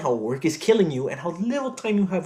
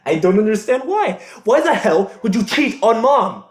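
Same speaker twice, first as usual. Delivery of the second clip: louder, angrier, pitched up; loud angry demand; 3 semitones higher, 5 dB louder than usual. Acted. Son yelling at his father over the cheating, loud and angry. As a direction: push it harder, nearly yelling. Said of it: "Gabriel, put your voice down".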